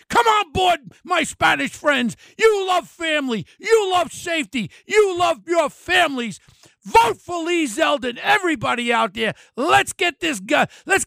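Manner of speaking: fired-up shouted appeal to voters; rallying shout. Real, not acted. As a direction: pump up the crowd like a stump speech. Rallying Hispanic voters to vote.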